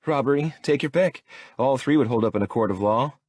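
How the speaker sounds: indignant, listing grievances; offended. Acted. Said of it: "Her offended tone".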